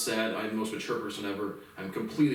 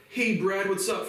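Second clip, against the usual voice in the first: mimicking brother; 8 semitones higher, 3 dB louder, slower than usual. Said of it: "from my brother".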